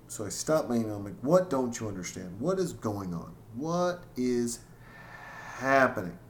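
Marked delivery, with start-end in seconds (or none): 1.2-6.2 mildly pissed-off questioning, deliberately spaced out; retold exasperation. Dad retelling questioning his confused daughter, exasperated. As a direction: imitate a parent losing patience, word by word. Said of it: "I got pissed and I popped my top".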